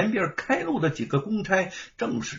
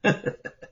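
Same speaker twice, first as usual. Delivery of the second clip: cold laugh. A narrator's reading. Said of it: "露出一丝冷笑".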